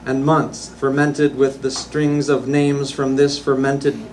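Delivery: measured, emphatic poem recital; poetry reading. Acted. Poet reads a travel poem to a live audience, measured recital. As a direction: read your poem out deliberately, phrase by phrase.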